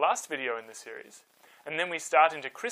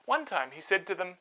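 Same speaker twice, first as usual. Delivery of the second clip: put-on calm storyteller reading to kids; story narration. A narrator's reading. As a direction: tell it gently, like a bedtime Bible story. Reads Bible story to children.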